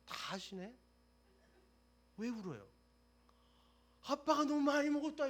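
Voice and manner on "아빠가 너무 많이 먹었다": put-on high, loud wail of a crying child; child sobbing that dad ate too much. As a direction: cry out like a hurt little kid.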